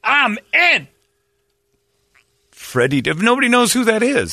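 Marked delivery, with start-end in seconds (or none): 0.0-0.9 high mock voice. Voices a singer agreeing.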